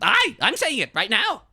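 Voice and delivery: high, very loud outburst; shouting detective. Acted. Detective shouting an accusation at the suspect. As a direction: bellow it back at them.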